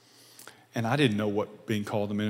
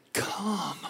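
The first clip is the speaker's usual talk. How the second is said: soft, higher, drawn-out beckoning; gentle invitation; 7 semitones higher, 4 dB quieter than usual. Acted. Jesus calls the burdened to him, gentle invitation. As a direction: invite them in softly.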